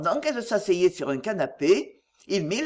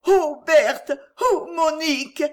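high, breathless frightened cries; panting fright; 8 semitones higher, 5 dB louder, slower than usual. A narrator's reading. Sisters crying out to each other in fear of the snake, panting. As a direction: gasp out each other's names in terror. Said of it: "firent ensemble les deux pauvres demoiselles haletantes".

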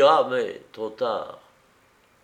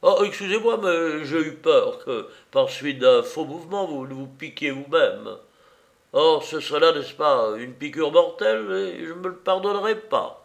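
ironic politeness; 4 semitones higher than usual. Acted. Don Louis's ironic politeness.

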